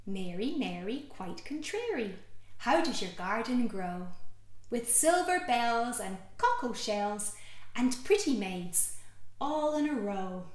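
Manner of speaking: put-on slow lilting rhyme read to a child; sing-song it gently; nursery rhyme. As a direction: storytime rhyme voice.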